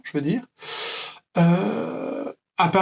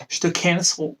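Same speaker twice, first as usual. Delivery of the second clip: slow, drawled posh-girl put-on; a hint of a stuck-up girl voice; mock snob voice; snobby girl accent. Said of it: "Avec mon accent de connasse".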